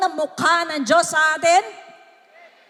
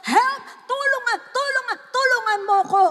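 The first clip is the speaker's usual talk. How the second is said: re-enacted cry for help; 10 semitones higher than usual. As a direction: imitate crying out for rescue, over and over. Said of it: "sinigaw ko na sinigaw". (ginagayang sigaw ng paghingi ng tulong)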